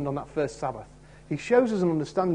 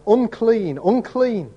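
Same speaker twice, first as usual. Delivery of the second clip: crying out; 5 semitones higher, 4 dB louder, much slower than usual. Retold or imitated. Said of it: "and cry out".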